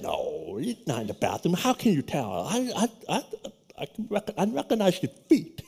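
soft, near-whispered retelling; hushed whisper. Retold or imitated. Telling his friend to slip out, hushed whisper. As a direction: keep it hushed so the professor won't hear. Whispering about professor in stall.

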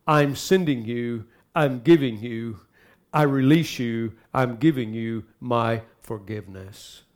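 slow, measured words of pardon; slow, low-key sincere release; sincere forgiveness. Shown as a demonstration. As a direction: offer forgiveness slowly and gently. Models a sincere forgiveness message.

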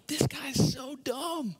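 high, slow scoffing voice; mocking prophet. Prophets of Baal scoffing at Elijah, high and slow. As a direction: sneer at him like a smug rival. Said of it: "you're just going".

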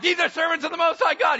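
high, loud mocking squeal of the slave girl. Slave girl pestering Paul, mocked high and loud. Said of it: "she's like".

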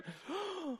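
sharp high gasp of surprise; surprised gasp. Acted. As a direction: suck in air at the sight. Servant sees the cloud.

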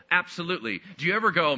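ordinary delivery

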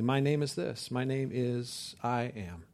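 softly put, unadorned declaration; simple statement. Retold or imitated. Preacher quoting God answering Moses, softly and simply. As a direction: state it simply, slowing onto the name. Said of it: "he says very simply".

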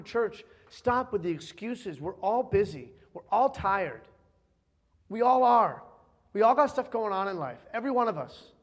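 firm preaching. Acted. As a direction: lean on each word. Preaching at full force.

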